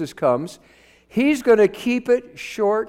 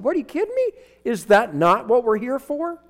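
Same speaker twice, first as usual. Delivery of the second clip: much higher, incredulous "What, are you kidding me?"; stunned disbelief; 5 semitones higher than usual. Retold or imitated. Preacher retelling his shock at a member refusing newcomers, incredulous. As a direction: throw it up high in retold astonishment.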